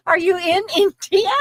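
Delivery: half-laughing question, voice cracking with giggles. Real, not acted. Teasing a viewer over her typo, laughing. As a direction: tease her through laughter.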